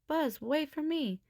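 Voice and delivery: high, loud, slow call after him; yelling. Acted. Jessie yelling after the owl carrying Buzz. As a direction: call out as he's carried off. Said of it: "Jessie yelled".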